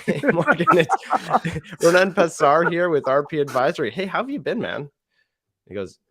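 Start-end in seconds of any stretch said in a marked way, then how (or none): 0.1-4.9 higher, louder, chuckling through the intro; friendly cold-call opener. Shown as a demonstration. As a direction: sound like you're happy to catch up with a friend. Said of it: "the friendly one".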